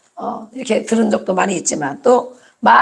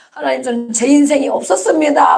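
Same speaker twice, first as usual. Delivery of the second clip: mildly raised voice of grievance; retold aggrieved prayer; 3 semitones higher than usual. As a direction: re-enact a wronged plea to God. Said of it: "그게 막 그전에 억울하더라고". (억울함을 살짝 담아 하소연하듯)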